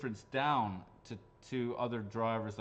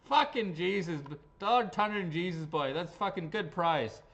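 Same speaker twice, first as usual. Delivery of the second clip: lightly hammed Irish accent, raised and loud; amateur Irish accent, excited; put-on Irish accent; 5 semitones higher, 6 dB louder than usual. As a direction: exclaim it in a rough attempt at Irish. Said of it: "Irish accent, I guess".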